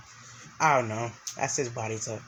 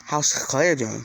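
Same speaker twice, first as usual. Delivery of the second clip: louder, eager ask; a brother anxious for news, louder; eager question; 7 dB louder, slower than usual. Acted. Eager question about his sister.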